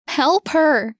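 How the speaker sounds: high, loud cry for help; desperate shout. Acted. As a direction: scream for help. Boy screams for help.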